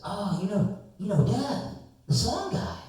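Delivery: high, laughing recognition; a stranger delighted to connect; excited stranger. Retold or imitated.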